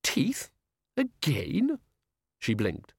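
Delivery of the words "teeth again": high, rising alarmed question; startled and dismayed; alarmed disbelief. Acted. Alarmed repeat, pitch jumps.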